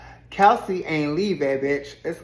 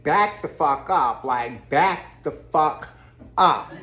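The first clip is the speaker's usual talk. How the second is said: firm, louder mock warning, stretched out; slow down and lean hard on each word; retold warning; 4 dB louder, slower than usual. Kelsey telling Rosie to back off, retold firm warning.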